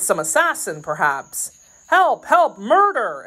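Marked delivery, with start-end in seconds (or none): 1.9-3.2 high, loud cries of alarm; alarmed, raised-pitch shouts; exclaimed cry for help. A narrator's reading. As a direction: call out for help in panic. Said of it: "exclaimed he".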